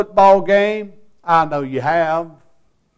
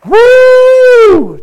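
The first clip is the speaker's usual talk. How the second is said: loud, high, sustained "woo"; imitated whoop; 12 dB louder than usual. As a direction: whoop it out high like an excited churchgoer. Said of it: "this turns around and goes".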